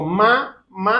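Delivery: "Ma, ma" split into two slow separate beats; syllable by syllable. Shown as a demonstration. Preacher showing a child the word slowly, syllable by syllable. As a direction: spell out "Ma, ma" slowly as if teaching a toddler. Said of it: "a ver, dilo rápido".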